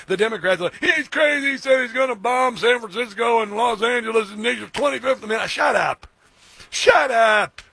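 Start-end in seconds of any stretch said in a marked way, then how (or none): 0.8-5.5 high-pitched hysterical imitation; mock panic. Host mimics Democrats fretting over the President, mock hysterical. 5.5-7.6 exasperated retort. Acted. Answers the mimicked Democrats.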